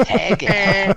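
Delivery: amused, laugh breaking into the word; laughing echo. Real, not acted. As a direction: repeat the name through laughter. Jokingly echoing the disputed name, laughing. (lachend nachgesprochen)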